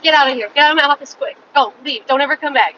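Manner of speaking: quick imitated send-off; brusque dismissive doctor. Doctors sending a patient away, brusque and quick. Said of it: "But when doctors and everyone is like".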